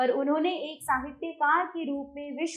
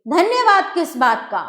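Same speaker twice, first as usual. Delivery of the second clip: louder and sharper, acted anger; angry; 3 semitones higher, 6 dB louder than usual. Landlord to Julia, questioning her thanks, angry. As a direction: snap back the thanks indignantly. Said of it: "गुस्से से".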